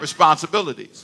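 "responsibilities" spoken out firmly, syllable by syllable; say it meaningfully. Shown as a demonstration. Pastor leading congregation's response, firm "responsibilities". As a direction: give "responsibilities" full weight. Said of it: "say it like you mean it".

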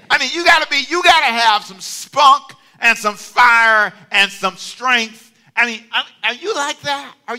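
loud, high preaching with drawn-out punches; rally them with full-voiced force; fired-up exhortation. Real, not acted. Preacher urging the congregation to have spunk, fired-up exhortation.

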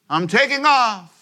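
high, slow, hammed-up announcement; mock pilot boast. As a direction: announce takeoff like a big show. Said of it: "and you says".

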